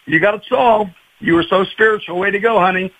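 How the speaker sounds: mildly sarcastic congratulations; understated mock admiration; sarcastic praise. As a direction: congratulate her with dry irony. Sarcastic retort to the grandmother.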